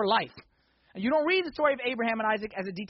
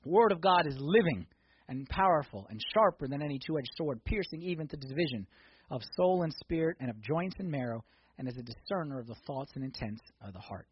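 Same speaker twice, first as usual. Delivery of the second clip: scripture reading; 7 semitones lower than usual. Acted. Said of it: "Hebrews chapter four, verse twelve".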